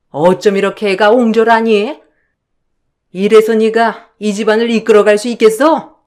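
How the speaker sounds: mother-in-law tearing into the daughter-in-law; scolding mother-in-law. Acted. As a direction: berate her like a stern mother-in-law.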